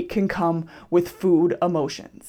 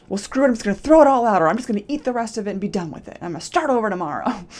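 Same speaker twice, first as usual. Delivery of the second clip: fed up; 4 dB louder, faster than usual. Retold or imitated.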